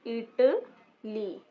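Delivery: इटली drawn out very slowly; slow pronunciation. Shown as a demonstration. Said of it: "इसको कहते हैं इथालिया".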